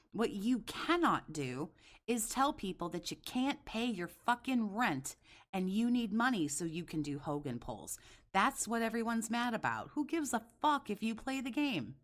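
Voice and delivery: heated, rising angry rant; wild unhinged ranting. Real, not acted. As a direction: rant it out, pitch climbing. Heated rant, raised pitch.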